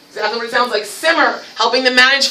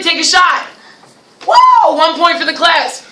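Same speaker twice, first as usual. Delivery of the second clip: excited cheer; 4 semitones higher, 3 dB louder than usual. Retold or imitated. Classroom basketball game cheer.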